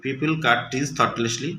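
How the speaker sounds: slow, deliberate sentence; slow reading aloud. Shown as a demonstration. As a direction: read it slowly for the class. Teacher reading example. (ধীরে পড়া)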